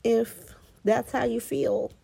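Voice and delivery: sassy matriarch telling her off; mock Carly. Carly telling Willow to get used to it, sassy mock. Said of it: "She was like".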